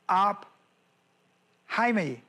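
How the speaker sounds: aphaimi spelled out very slowly, syllable by syllable; Greek word aphaimi. Shown as a demonstration. Preacher teaching the Greek word aphaimi, very slowly. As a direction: lay out aphaimi slowly for the congregation. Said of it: "That's our word".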